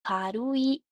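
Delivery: "खारुई" drawn out as one word, खा-रू-ई; joined-up syllables. Shown as a demonstration. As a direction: join the three beats of "खारुई" clearly. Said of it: "three syllables". ("खारुई" के टुकड़े जोड़कर, साफ़)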